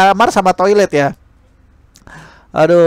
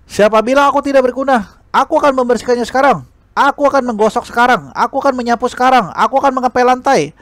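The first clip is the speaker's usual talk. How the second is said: higher, insistent repeated vows; indignant defiance; 7 semitones higher than usual. Acted. Princess declaring to the teacher she'll clean everything, indignant. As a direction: push back, stung and stubborn. Zhao Ye stubbornly accepts chores.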